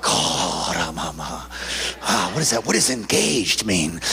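hammed-up low groan turning into bewildered questioning; exaggerated confused reaction; mock bafflement. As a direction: act comically dumbfounded, starting deep. Mock baffled reaction to pastor's answer.

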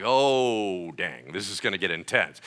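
low, drawn-out oh; imagined listener's reaction. Acted. Listener bracing for the story, mock-awed and low. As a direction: stretch the oh, then stay low. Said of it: "And you're like".

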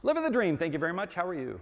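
high-pitched, automatic pleasantry; programmed cheery reply. Acted. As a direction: stock hallway greeting, starting high. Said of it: "I'm so programmed at this point".

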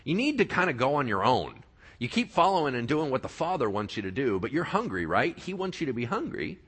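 sly tempter getting pushy; tempting Satan. Acted. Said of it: "tempted him in the desert and said".

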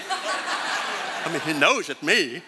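talking through a laugh. Real, not acted. Preacher laughing about his famous voice, laughing. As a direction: chuckle through the words.

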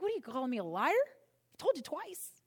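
mock-hurt outburst, stretching told; indignant retort. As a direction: bristle as if called a liar. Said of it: "I'd be like".

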